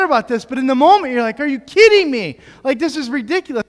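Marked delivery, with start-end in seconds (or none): 1.4-3.6 mock-upset outburst, higher and louder at the start; retold exasperation. Parent retelling the moment of getting upset at baby's mess, exasperated. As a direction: relive a parent's exasperation, lightly hammed up. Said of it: "when I'm getting upset".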